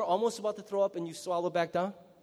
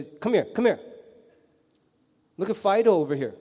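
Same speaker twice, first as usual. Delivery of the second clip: grim summons; 4 dB louder than usual. Pretend. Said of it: "bring those kids over".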